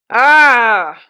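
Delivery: loud, drawn-out growled "ah"; growl between teeth. A narrator's reading. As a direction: vent disgust through gritted teeth. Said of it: "growled the journeyman between his teeth".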